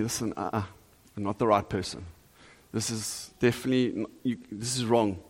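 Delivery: low, softened voice of caution; acted friendly warning. Friends warning someone in love.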